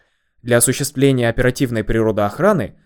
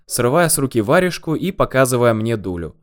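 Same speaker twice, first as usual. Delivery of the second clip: ordinary delivery, nothing marked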